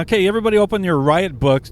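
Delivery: loud, quick pretend announcement; mock commander's order. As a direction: call it out briskly like a pretend commander. Mock commander addressing the squad.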